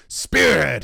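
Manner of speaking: loud, high battle roar. A narrator's reading. Commander to his men in the stirrups, roared. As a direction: roar out the formation. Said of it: "he roared".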